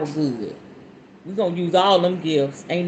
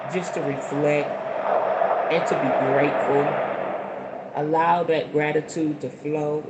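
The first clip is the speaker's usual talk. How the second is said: guided meditation. Acted. Guiding viewers into a calm sitting posture. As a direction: settle the listeners into their seats.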